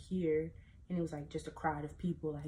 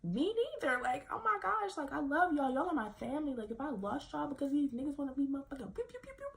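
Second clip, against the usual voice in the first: sad retold plea; 8 semitones higher than usual. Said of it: "that made me sad".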